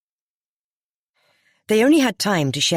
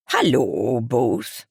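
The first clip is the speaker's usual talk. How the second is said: chirpy; 3 semitones lower, much slower than usual. A narrator's reading. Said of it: "she said chirpily".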